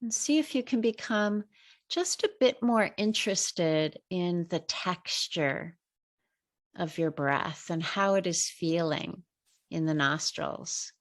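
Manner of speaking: measured meditation guide with long pauses; guided meditation. Real, not acted. Teacher leading listeners through breathing, guided meditation. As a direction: guide listeners unhurriedly, pausing between phrases.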